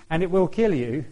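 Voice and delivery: warning, "kill" stressed with a rise. Acted. Warning that sin kills.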